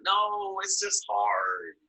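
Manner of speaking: hammed-up refusal, slow and whiny; whiny complaining. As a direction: drag it out like a sulky complainer. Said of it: "like, complaining would be like".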